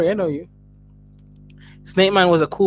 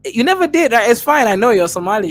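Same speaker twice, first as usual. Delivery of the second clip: mock accusation; 7 semitones higher than usual. Real, not acted. Mock complaint about unsent money.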